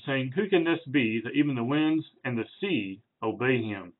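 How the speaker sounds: measured Bible reading voice; reading the passage to the congregation; scripture reading. Acted. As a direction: read the verses with reverence. Reads scripture passage aloud.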